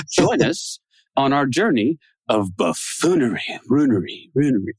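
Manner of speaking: mock echo fading on runery, runery; pitching a new podcast tagline with a mock echo. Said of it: "It's gotta have a lot of echo at the end".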